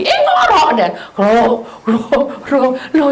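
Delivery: high, loud laughing exclaim; laughing surprise. Real, not acted. Finding her husband asleep snoring, laughing loudly.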